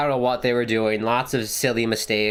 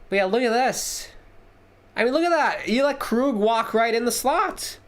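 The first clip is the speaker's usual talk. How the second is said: exasperated; 9 semitones higher than usual. Real, not acted. Replay of defensive lapse.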